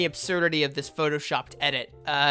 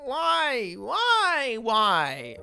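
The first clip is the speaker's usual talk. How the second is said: high, drawn-out mock wail; mock despair; 6 semitones higher, 3 dB louder, much slower than usual. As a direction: wail it theatrically, falling away at the end. Mock despair at the fan dub.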